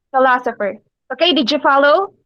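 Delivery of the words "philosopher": "Philosopher" with emphasis on LO; teacher's careful repeat of "Philosopher", weight on LO; syllable stress. Shown as a demonstration. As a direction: lean on the second syllable of "Philosopher". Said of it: "In philosopher".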